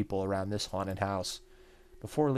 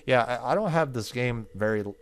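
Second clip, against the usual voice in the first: shaken laugh; 3 semitones higher, 7 dB louder than usual. Real, not acted. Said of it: "that did make me jump".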